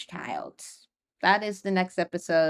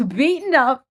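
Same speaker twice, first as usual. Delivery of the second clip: beaten up, laughed out louder; laughing repeat; 6 semitones higher, 6 dB louder than usual. Real, not acted. Host laughs uneasily while recapping the beating scene. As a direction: laugh through the words beaten up.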